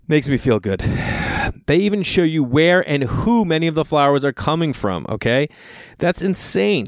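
upbeat podcast sponsor read; punchy promo pitch with asides. Acted. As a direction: sell it like a host ad.

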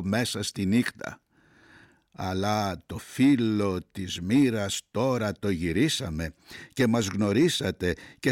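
measured verse reading with weighted pauses; poem recitation. Acted. Reader reciting Greek verse to listeners, measured poem recitation. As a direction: recite line by line, letting each phrase settle.

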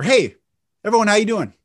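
loud, high greeting after a punched 'hey'; punchy cadence. Shown as a demonstration. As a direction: call it out big, break after "hey".

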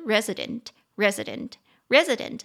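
resident said slowly, each syllable distinct; slow clear resident. Shown as a demonstration. Teacher slowly models resident for the class. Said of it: "三个音节".

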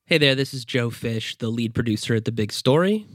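stuffy nasal voice from a cold. Real, not acted. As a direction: talk through a blocked nose. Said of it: "I apologize if I sound a little nasal right now".

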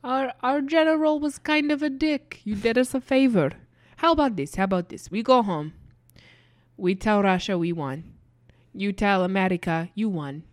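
lightly voiced consoling Russian; Russian soldier. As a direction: comfort the kid like a gruff buddy. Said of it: "And it's like".

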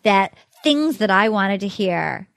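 slow, measured mock dismissal; mock dramatic elimination speech; imitated rejection speech. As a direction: act out a deliberate telling-off, rising to the verdict. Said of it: "and she's like".

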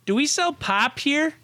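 high-pitched mock yell; retold microphone yell. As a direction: call it out over the microphone, half laughing. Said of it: "She yells in the microphone".

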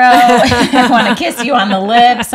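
laughing mock fan. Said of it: "moms everywhere are like".

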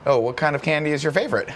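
lightly voiced creepy old man; a hint of a creepy neighbor luring in. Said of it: "creepy old man jokes".

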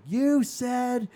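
high, loud mock Filipino-accented mom. Immediately pissed off at her kid, high mock Filipino accent. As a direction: imitate an indignant mom's Filipino accent. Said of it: "in her crazy Filipino accent".

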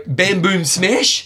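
slow punchy comic-book announcement; Batman sound effects. Pretend. Host announcing the runner's nickname like Batman sound effects. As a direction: boom it out like a Batman comic fight. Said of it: "It's like Batman".

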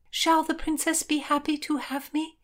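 high, tentative question; uncertain. A narrator's reading. Heroine asks friend whether she is welcome, mildly uncertain. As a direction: ask it with a touch of doubt. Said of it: "she asked uncertainly".

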